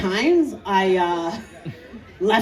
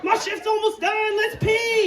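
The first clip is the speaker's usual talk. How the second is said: high, sing-song coaxing; coaxing call; 12 semitones higher than usual. Retold or imitated. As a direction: coax it like a shy pet. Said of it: "Had to talk to him".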